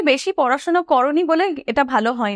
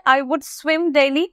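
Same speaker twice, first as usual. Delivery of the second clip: very slow, every word held apart; slow teaching model; much slower than usual. Shown as a demonstration. Teacher modelling a sentence slowly for students. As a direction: lay it out word by word. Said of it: "I would swim হয়ে গেল সেই ক্ষেত্রে".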